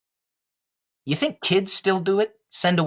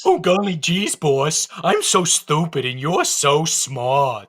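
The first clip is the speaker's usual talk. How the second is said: moron voice; slower than usual. Acted. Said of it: "the moron voice".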